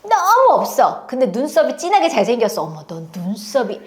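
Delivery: lively, gushing praise for a student's looks; a teacher fussing over a pupil. Retold or imitated. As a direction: heap compliments on the kids. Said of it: "그러면서 이제 계속 이렇게 칭찬".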